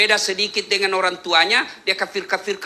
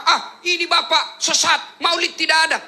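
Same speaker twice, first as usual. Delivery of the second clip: mocking son; 7 semitones higher than usual. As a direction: mimic the self-righteous son, up high. Son accusing father, quoted. (suara anak sok tahu yang mengejek)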